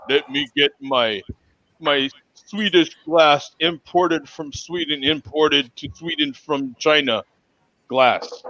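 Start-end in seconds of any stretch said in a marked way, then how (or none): 1.8-8.4 slow, hammed-up Russian accent of Sweden; lightly put-on Russian-Swedish accent, drawn out; mock Swedish-Russian accent. Joking to beer buddies about his glass, in a mock Russian accent of Sweden. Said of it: "In my only accent that I have, that's the Russian accent of Sweden".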